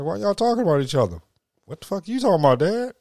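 high, fast confused question; mock bewilderment at the kids; confused parent. Father asking his kids why they insult each other, high and fast. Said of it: "I'm like".

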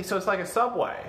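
put-on slipping lightly into a southern accent. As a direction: nerd character drifting into southern accent. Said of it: "doing a southern accent".

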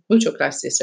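put-on Spanish thanks in a mild American accent; terrible American accent. Charlotte repeats thanks to the babysitter, terrible American accent. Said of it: "in my terrible American accent".

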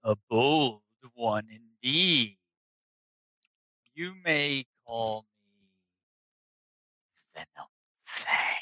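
slow, booming dragon. Acted. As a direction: speak as an ancient proud dragon. GM voicing the dragon.

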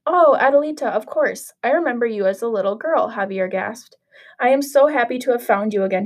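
put-on lively read-aloud storytelling for children; story narration. A narrator's reading. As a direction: read it like a picture book to little kids. Teacher reads Cinderella story aloud.

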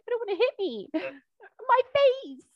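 high-pitched mock plea; mock protest. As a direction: squeal it as a hammed-up complaint. Mock quote of piñata lookalike.

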